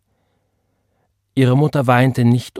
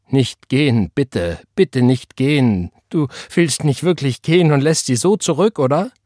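urgent plea, climbing higher; pleading; 5 semitones higher, 4 dB louder than usual. A narrator's reading. Gabriel begs his sister not to go, pleading. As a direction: beg hard, pushing louder and higher as you go.

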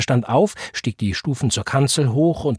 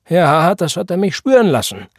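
smiling; 8 semitones higher, 7 dB louder than usual. A narrator's reading. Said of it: "sagte Brother Elisha lächelnd".

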